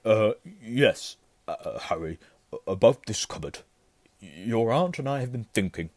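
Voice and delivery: halting, stammering false geniality; forced niceness. A narrator's reading. Uncle offers nephew bigger room, forcedly pleasant. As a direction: force out pleasantness through hesitations. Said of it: "forced his face into a smile".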